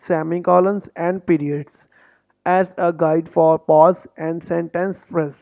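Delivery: slow, deliberate read-through of the test rules; slow instruction reading. Shown as a demonstration. Coach reading exam instructions to students, slow and deliberate.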